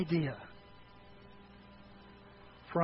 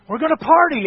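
joyful; 8 semitones higher, 11 dB louder than usual. Acted. Father announcing the celebration.

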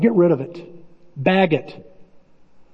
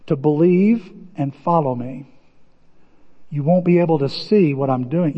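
voice of God. Acted. God voiced warning Joshua.

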